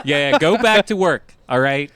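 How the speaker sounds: loud mock rant at lazy workers; mock boss yelling. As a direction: bark it like a sarcastic boss.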